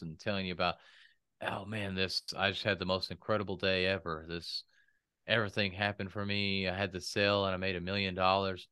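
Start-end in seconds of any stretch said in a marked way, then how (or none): 1.4-8.7 flat fake excitement. Shown as a demonstration. Speaker demoing bad delivery, monotone excitement. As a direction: say great news with no energy at all. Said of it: "are you really excited".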